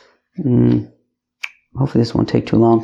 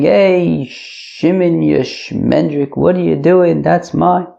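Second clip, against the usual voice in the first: drawn-out, higher-pitched complaint, no real volume; mild mock outcry, stretched and raised in pitch; mock protesting shout; 4 semitones higher, much slower than usual. Ruvain protesting as Shimon takes the talis, in a mock shout. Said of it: "Ruvain is crying and shouting".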